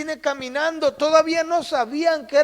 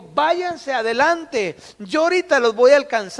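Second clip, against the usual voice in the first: drawn out then quick; 4 dB louder than usual. Acted. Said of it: "le dijo".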